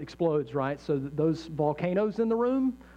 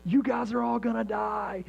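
higher, mildly angry imagined letter; mock angry outburst; 5 semitones higher than usual. The speaker writing an imagined letter in anger, mock angry. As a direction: put on a touch of angry threat. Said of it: "written a different letter in anger".

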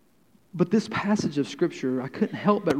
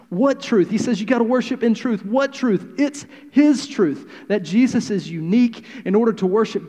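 high, loud preaching; preaching fervor; 6 semitones higher, 3 dB louder than usual. Real, not acted. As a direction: drive it home from the pulpit. Preacher building to full force.

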